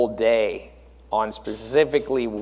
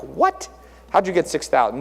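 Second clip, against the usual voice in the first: mock surprise; 2 semitones higher than usual. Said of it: "People told me later".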